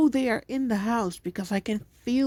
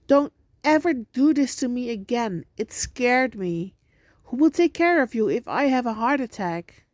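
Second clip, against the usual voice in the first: scolding; 4 semitones higher, 5 dB louder than usual. Acted. Mom scolding scared kids.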